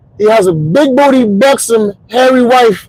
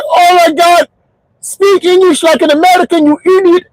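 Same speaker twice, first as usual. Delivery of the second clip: much higher exasperated telemarketer; annoyed caller; 12 semitones higher than usual. Retold or imitated. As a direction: scold him in a squeaky fed-up voice. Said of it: "He's like".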